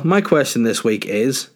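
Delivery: slow suspenseful lead-in, pausing after IS; dramatic pause. Real, not acted. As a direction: draw out IS slowly, then hang. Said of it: "oh, dramatic pause".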